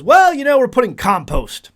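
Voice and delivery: a hint of a confident fellow gardener; mock know-it-all gardener. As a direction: play the smug gardener who's sure of himself. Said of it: "And I ask".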